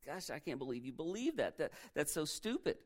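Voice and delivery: soft, belittling disbelief; scornful tempter. Acted. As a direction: scoff under your breath. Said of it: "He just says".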